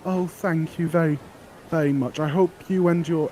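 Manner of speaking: put-on a cheerful girl pushing her flowers; eager flower girl. Flower girl offering her flowers to the adventurer, high and eager.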